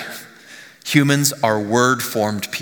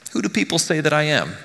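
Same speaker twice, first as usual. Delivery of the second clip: higher-pitched open question, lightly acted; lightly voiced Jesus; 4 semitones higher than usual. Jesus opening a conversation with you, lightly voiced question. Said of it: "Jesus comes to you and he says".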